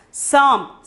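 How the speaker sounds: "samp" with the nasal closed to m before p; model pronunciation. Shown as a demonstration. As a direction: say "samp" as one syllable. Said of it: "pronounce it as samp".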